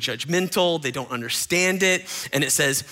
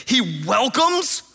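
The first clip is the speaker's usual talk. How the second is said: slow, drawn-out disgust; lightly voiced sneer; scandalised Pharisees; 6 semitones higher, 3 dB louder, much slower than usual. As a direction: Pharisees quoting scripture with a touch of disdain. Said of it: "look what they said".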